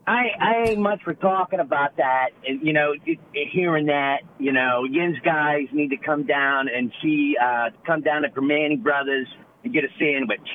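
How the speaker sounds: casual Pittsburgh local accent; lightly demonstrated Pittsburgh talk on request. Shown as a demonstration. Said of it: "Can you do a Pittsburgh accent".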